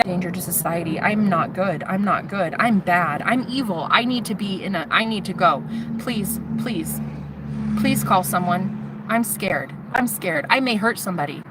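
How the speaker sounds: murmured confession turning to a plea; retold frightened self-accusation; helpless self-blame.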